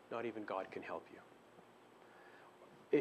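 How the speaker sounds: slow, soft whisper, nearly no voice; quiet voice of trouble. Acted. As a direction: whisper it slowly like a sly inner voice. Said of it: "it's a quiet voice".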